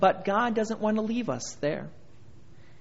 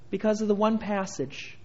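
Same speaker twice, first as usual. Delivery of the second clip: ordinary delivery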